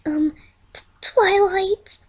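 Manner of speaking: stammered breathy whisper, rising high; whisper, terrified of the noise; scared pony whispering to her friend; frightened whisper. A narrator's reading. Fluttershy frightened in the forest.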